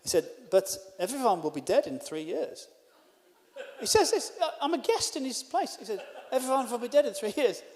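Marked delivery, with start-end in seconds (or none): 0.5-2.7 put-on clumsy foreign accent, W said as V. Host warning guest about the jab, put-on accent. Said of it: "sorry for the terrible accent". 6.3-7.6 put-on clumsy foreign accent, W said as V. Host warning guest about the jab, put-on accent. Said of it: "sorry for the terrible accent".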